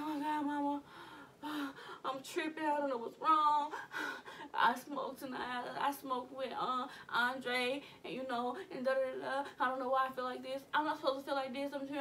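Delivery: anxious pleading with sighs; panicked to mama. Retold or imitated. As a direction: voice rising in worry, breathy sighs. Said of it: "I was like".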